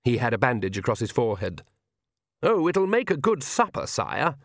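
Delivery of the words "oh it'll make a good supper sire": high, over-bright cheer for royalty; madly cheerful. A narrator's reading. Oates answers the king at supper talk, madly cheerful. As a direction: lift the pitch with forced cheeriness. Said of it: "said Oates in the madly cheerful voice".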